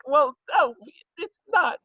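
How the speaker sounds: high, loud comic objection; mock protest. Hostess defending her lamp dinner, mock protest. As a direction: defend yourself, pitch shooting up.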